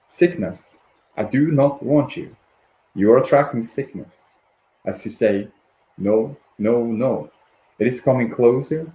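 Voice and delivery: measured read-aloud with deliberate pauses; spoken book passage, evenly emphatic; guided meditation reading. Acted. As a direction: read it out phrase by phrase, letting each land.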